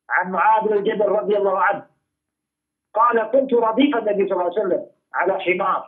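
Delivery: reciting the hadith quickly; rapid hadith recitation. Acted. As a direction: rattle off the chain and text.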